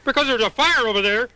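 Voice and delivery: gasping sudden realization; sudden alarm. Shown as a demonstration. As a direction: it finally sinks in with a gasp. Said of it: "gasps, repeats".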